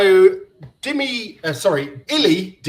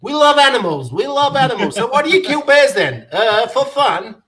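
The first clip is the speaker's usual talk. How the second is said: viking voice; 8 semitones higher, 5 dB louder than usual. Retold or imitated. Mock interview with the Viking.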